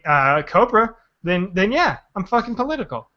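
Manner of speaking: mock Texas accent; defiant put-on Texan. Mocking a Texan patriot in a Texas accent. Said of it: "that's a great Texas accent".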